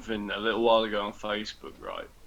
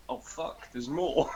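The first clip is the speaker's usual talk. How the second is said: whispered curse; 2 semitones higher, 6 dB quieter, slower than usual. Retold or imitated. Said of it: "And I went".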